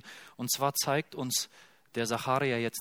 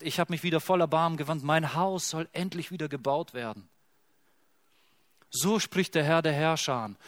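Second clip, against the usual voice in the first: joyful God; 2 semitones higher than usual. Acted. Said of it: "Er sagt".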